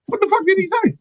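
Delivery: high squeaky title call; segment title. Shown as a demonstration. Host introduces his new comic segment to Coop. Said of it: "It's called".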